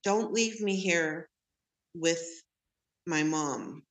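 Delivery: mild mock child begging father to stay; imitating child begging. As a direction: replay the little kid's plea to dad. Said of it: "you know, begging him".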